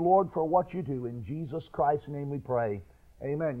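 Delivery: bow heads and pray gently; prayer. Real, not acted. Pastor leads congregation in prayer.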